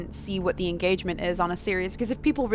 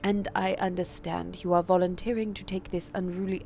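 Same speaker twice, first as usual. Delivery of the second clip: put-on posh accent. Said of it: "give Sophie a slightly different accent".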